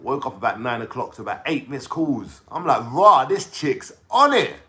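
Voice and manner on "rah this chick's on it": impressed. Retold or imitated. Impressed reaction retold.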